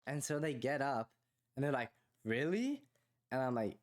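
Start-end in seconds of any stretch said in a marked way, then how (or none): 2.2-2.8 high, rising mock disbelief; incredulous, lifted question; imitated surprise. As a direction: imitate a surprised girl, pitch climbing. Girls react to his yes.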